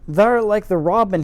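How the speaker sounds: lightly put-on Yorkshire, rough and blunt; faux Yorkshire accent. Old gardener teasing the girl, in a light faux Yorkshire accent. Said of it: "my terrible faux Yorkshire accent".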